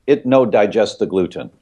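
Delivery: put-on a light Italian accent, broken English "no digest". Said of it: "He's got this Italian accent".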